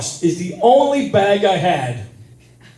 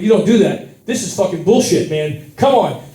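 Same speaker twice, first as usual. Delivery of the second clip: rising outrage at the counter; complaining hotly to the airport lady; angry rant; 3 semitones higher than usual. Retold or imitated. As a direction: let the indignation build to a rant. Ranting at airport staff.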